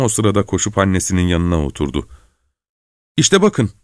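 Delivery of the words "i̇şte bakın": high-pitched, eager exclamation; excited cry. A narrator's reading. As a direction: cry out high without real shouting. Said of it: "diye bağırdı". (tiz sesle bağırarak)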